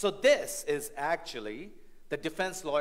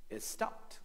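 hushed; 5 dB quieter than usual. Acted. Preacher pausing before punchline.

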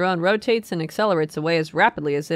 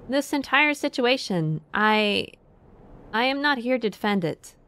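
higher, halting counselor voice; slightly put-on, raised voice of an uneasy official; lightly acted defensive speech, pitched up; nervous counselor; 5 semitones higher than usual. Nervous counselor voiced in game dialogue.

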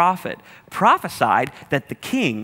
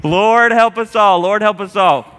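laughing; 6 semitones higher, 7 dB louder than usual. Real, not acted. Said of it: "still laughing, recovering".

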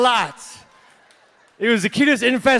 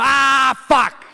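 screaming fish; 4 semitones higher, slower than usual. Pretend. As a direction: yell it like a fish being eaten. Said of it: "fish going".

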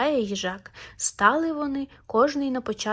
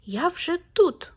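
high, slow, louder shout; hedgehog shouts; 7 semitones higher, 4 dB louder, slower than usual. A narrator's reading. Hedgehog shouts at the hare, high and slow. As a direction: crow it out triumphantly. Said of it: "а їжак йому кричить".

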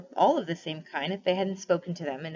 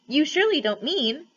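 incredulous jackdaw; 9 semitones higher, 5 dB louder than usual. A narrator's reading. Jackdaw questioning badger.

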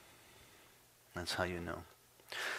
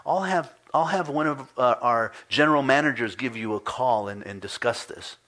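placating clerk; 4 semitones higher than usual. Retold or imitated. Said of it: "And she goes".

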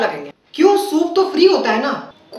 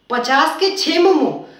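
slow disbelieving repeat of पचास के छः मोमो; stunned customer repeating the price slowly; incredulous echo; slower than usual. Acted. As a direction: drag out पचास के छः मोमो as if cheated. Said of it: "नहीं, नहीं भैया".

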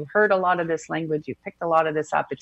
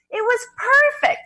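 high, slow, louder exclamation; retold delight; 5 dB louder than usual. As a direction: imitate someone reporting with delight. Retells student's delighted report.

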